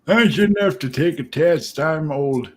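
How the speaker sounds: old man impression. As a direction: whine it like a cranky senior. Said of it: "your old man impression".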